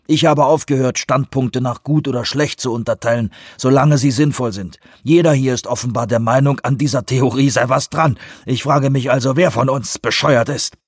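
irritated, emphatic rebuttal; Vanderbilt, scornful. Acted. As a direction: argue back bluntly at the president.

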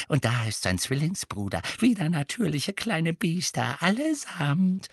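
elf's grumbled aside; half-aloud but distinct. A narrator's reading. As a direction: mutter it so they can still hear. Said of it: "fügte halblaut, aber deutlich hinzu". (halblaut, aber deutlich)

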